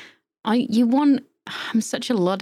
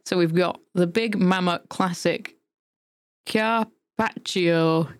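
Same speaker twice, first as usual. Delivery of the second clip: put-on northern accent. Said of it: "a northern accent?".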